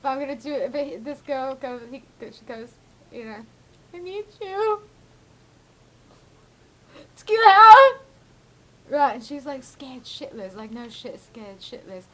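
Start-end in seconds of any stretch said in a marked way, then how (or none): 3.9-8.0 hammed-up shriek on the last words; mock exorcising yell. Shaking girl ordering a spirit out, mock scream.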